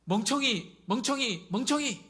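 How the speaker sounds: loud, high name-calling, climbing each time; retaliatory taunt. Acted. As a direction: hurl the insult back, rising with each repeat. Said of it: "저에게 바보라고 하면".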